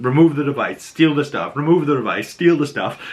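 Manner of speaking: anxious urging, bouncing between two orders; mock-nervous viewer egging both sides on; tense back-and-forth. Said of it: "you're just going back and forth".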